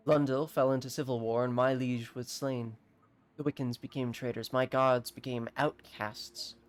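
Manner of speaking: understated, solemn recounting; slightly weighty character read with lingering phrase ends; lightly voiced alchemist. Exiled alchemist telling of the civil war, lightly solemn.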